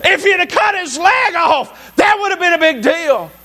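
high-pitched, emphatic pulpit delivery; full-force preaching. Real, not acted. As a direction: drive each point home like a fired-up preacher.

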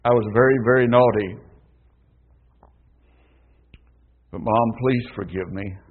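put-on soft, pleading child; a lightly voiced sorry little girl; child begging mother for forgiveness, softly; sorrowful little voice. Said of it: "a sorrowful little voice said".

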